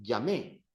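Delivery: llamé stressed wrongly on its final é; stress on last syllable. Shown as a demonstration. Teacher warns students off this form, llamé end-stressed. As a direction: push the weight onto the end of llamé. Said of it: "emphasis is on the second last syllable. Don't say".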